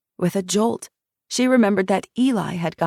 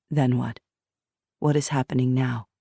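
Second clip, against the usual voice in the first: lower, steady guiding voice; calm questioner; 4 semitones lower than usual. Acted. Jackson guides Shiloh through the memory, low calm prompting. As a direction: gently prompt her to go on.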